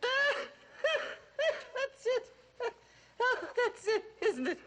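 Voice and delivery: delighted, laughing out the words. Real, not acted. Mother laughs at the actress's impression, real delighted laughing.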